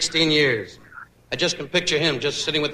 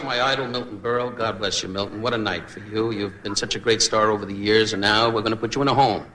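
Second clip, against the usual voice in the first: usual speaking voice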